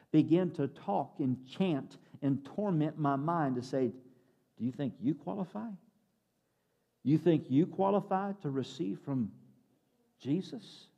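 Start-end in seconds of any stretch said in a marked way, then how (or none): 4.6-10.9 soft, halting, sceptical questioning; tormenting inner doubt. Acted. Voices of failure tormenting a believer's mind, acted quiet doubting. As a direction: needle the listener's worthiness with pauses. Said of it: "all the voices of inadequacies and failures".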